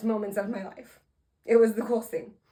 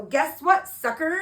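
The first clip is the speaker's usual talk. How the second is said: raised, teasing gotcha; mock gloating at a crowd; spring the punchline on them, pitched up; playful taunt; 4 semitones higher, 3 dB louder than usual. Re-enacts taunting the kids.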